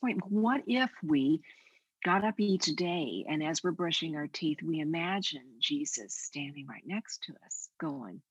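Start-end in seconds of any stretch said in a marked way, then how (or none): none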